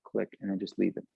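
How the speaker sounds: tight, held-breath voice; holding breath. Real, not acted. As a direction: speak while holding the breath in. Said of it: "now shut it off right here".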